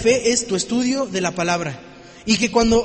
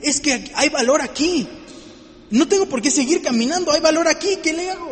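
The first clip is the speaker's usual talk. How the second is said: amazed reader; 5 semitones higher than usual. Retold or imitated. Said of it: "cuando no te quedas y dices".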